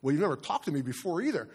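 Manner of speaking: quick, matter-of-fact comeback; brisk, lightly acted everyday reply; mock normal conversation. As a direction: retort casually, as if chatting with a donkey. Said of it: "like it's a normal conversation".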